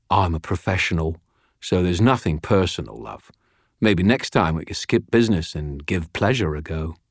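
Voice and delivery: lightly voiced leering British tough; cocky crook, leering. Freed prisoner leering at the detective, cocky. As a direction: toss it off as a suggestive tease.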